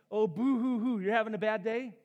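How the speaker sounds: mock boo hoo sobbing; fake crying. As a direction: pretend to sob, mocking. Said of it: "James is gonna be like".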